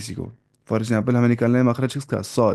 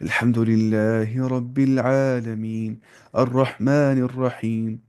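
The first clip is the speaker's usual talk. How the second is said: slow Arabic recitation with light letters, as Arabs read; Arab style recitation; slower than usual. Shown as a demonstration. Teacher showing how Arabs recite, slowly. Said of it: "अरब वाले ऐसे पढ़ेंगे".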